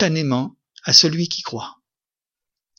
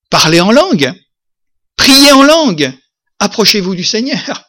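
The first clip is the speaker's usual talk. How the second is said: ringing, much higher call, slowed at the peak; fervent exhortation; 4 semitones higher, 6 dB louder than usual. Real, not acted. Preacher urges the congregation to pray in tongues, ringing out. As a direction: cry it out to the whole church.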